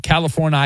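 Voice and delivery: California ending in eye-AY; mock local pronunciation. Shown as a demonstration. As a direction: say California as cali-forn-eye-AY. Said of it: "is how we pronounce it".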